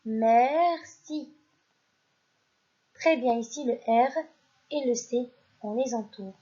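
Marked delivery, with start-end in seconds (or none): 0.1-1.3 "merci" projected to the class, falling tune; loud model word. Shown as a demonstration. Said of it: "Je répète".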